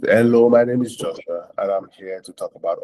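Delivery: an evangelist greets a passer-by on the street; friendly greeting demo. Shown as a demonstration. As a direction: greet a stranger warmly and openly. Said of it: "you can also start with".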